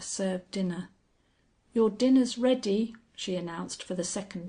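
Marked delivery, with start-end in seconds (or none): 1.7-3.0 a touch of reproach, a bit louder; reproachful. A narrator's reading. Housekeeper to the Vicar, mildly reproachful announcement. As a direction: remind him reproachfully the dinner is waiting. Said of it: "with a reproachful intonation".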